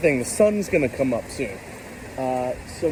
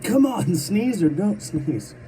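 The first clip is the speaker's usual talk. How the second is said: loud, high exasperated plea; frustrated urging; 6 semitones higher, 3 dB louder, slower than usual. Real, not acted. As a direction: demand the sneeze make up its mind. Frustrated at teasing sneeze.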